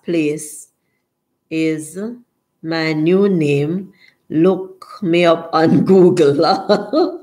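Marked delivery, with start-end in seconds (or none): 4.3-7.2 laughing. Real, not acted. Joking about new name.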